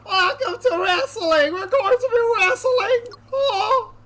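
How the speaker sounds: loud, high announcer hype; hyped announcer. Pretend. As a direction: open the show like a ring announcer. Hyped game announcer intro.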